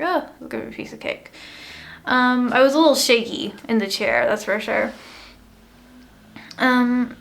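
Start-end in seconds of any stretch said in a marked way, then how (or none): 0.0-1.3 whispered thought. Retold or imitated. Retelling her own naive thought.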